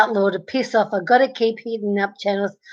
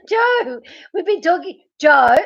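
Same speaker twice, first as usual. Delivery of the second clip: laughing; 4 semitones higher than usual. Real, not acted. Laughing again.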